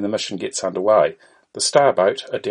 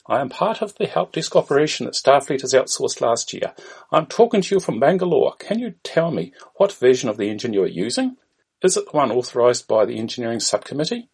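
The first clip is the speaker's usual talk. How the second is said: put-on Indian-accented help desk agent; raised-pitch Indian call centre voice; 4 semitones higher than usual. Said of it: "An Indian voice is heard".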